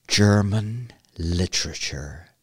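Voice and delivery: low, slow, weighted delivery; dread-laden announcement. Real, not acted. Podcaster naming the school subject they hated, ominous. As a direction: let each word sink, slow and low.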